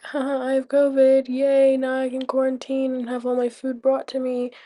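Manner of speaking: a touch of fake celebration; mock glee. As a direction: pretend to be delighted. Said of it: "it's not like me".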